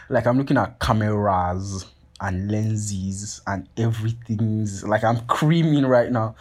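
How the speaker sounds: slow, drawn-out relish over each word; awestruck. Retold or imitated. Drooling over a photographer's expensive camera bag, awestruck.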